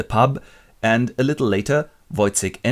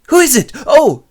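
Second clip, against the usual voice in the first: much higher, louder startled woman; high startled mock voice; 11 dB louder than usual. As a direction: squeak it out, startled. Marie voiced in retelling.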